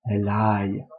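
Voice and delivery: "Elai" étiré doucement; très lentement. Shown as a demonstration. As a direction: allonger "Elai". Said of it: "très lentement". ("Elai" prononcé lentement)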